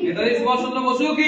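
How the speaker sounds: shouted rally call; slogan call. Real, not acted. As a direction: call it out to the crowd. Leads a patriotic slogan call. (Slogan হাঁক)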